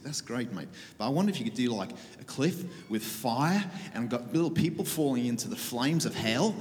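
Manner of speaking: put-on a light, rough stab at an Australian accent; rough Australasian accent. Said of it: "I'm gonna attempt a rough accent here".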